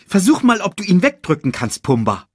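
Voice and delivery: high, quick cartoon meerkat; chirpy little sidekick voice. Timon orders Pumba.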